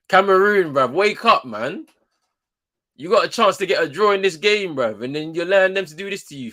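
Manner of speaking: loud, high shouting at the screen; exasperated fan bellowing at the telly; frustrated shout. Real, not acted. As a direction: yell at the team to wake up. Yelling at team on TV.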